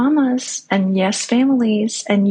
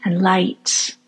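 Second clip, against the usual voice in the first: guided meditation. Acted. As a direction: gently guide the listener to relax.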